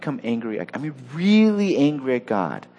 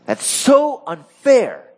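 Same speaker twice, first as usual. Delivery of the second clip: mock whine; 10 semitones higher, 6 dB louder, much slower than usual. Voicing an aggrieved complaint.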